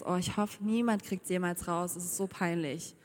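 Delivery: hushed, embarrassed worry; ashamed inner thought. Acted. Voices an ashamed secret thought. (leise, verschämt gedacht)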